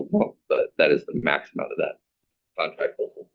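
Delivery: normal talking voice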